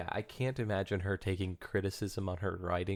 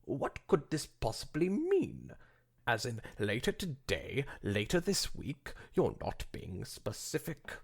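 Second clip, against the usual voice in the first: frowning annoyance; 5 semitones higher than usual. Acted. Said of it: "a frown beginning to form".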